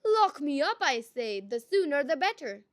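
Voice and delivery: loud, eager demand; insistent. A narrator's reading. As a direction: beg to be locked up.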